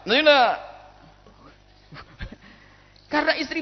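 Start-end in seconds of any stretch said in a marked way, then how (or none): 0.0-0.6 very loud, slow, drawn-out yell; angry yell. Acted. Husband yelling at wife after the third time. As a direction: finally lose your temper.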